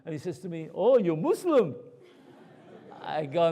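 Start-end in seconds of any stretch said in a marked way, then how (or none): 0.7-1.8 imitating a surprised questioner, slow and higher; young Sikh gentleman. Young Sikh seatmate asking the rabbi his faith, imitated surprise. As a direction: slowly voice a curious stranger's rising question. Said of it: "a young Sikh gentleman".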